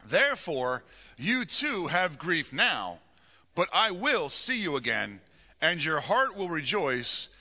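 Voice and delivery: deliberate Bible reading with pauses between phrases; scripture reading. Acted. Pastor reading Jesus' promise to the congregation, deliberate scripture reading. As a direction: proclaim the verse, weighting the key words.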